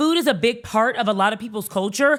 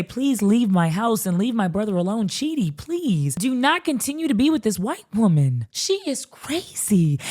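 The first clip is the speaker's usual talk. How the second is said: pleading. Acted. Sister begs her brother to leave this woman, pleading.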